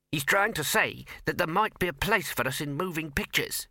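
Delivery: high, tiny mouse voice; squeaky mouse voice. Acted.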